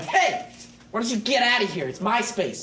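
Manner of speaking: gruff bully voice, lightly done; bossy bully claiming turf; barbarian. Retold or imitated. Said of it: "I'm Gur Stevens".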